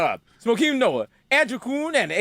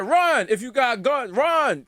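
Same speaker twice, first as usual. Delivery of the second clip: 1 mock urgent shout; 4 semitones higher, much slower than usual. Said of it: "they was like".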